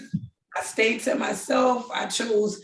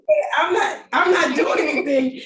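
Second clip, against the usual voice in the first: laughing through it; 5 semitones higher, 3 dB louder than usual. Retold or imitated. Retells her own reply while laughing.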